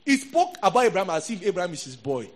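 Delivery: impassioned Bible teaching; emphatic preaching. Real, not acted. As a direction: drive the point home to the congregation. Preaches with raised voice.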